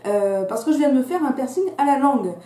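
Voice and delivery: slight lisp from a fresh tongue piercing; lisping on the s sounds. Real, not acted. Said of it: "il est fort probable que je zozote".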